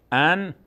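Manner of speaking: ان with a clear n; as written. Shown as a demonstration. Teacher reads the written syllable, ان with clear n. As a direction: land on the plain n of ان. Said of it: "به جای نون ساکن".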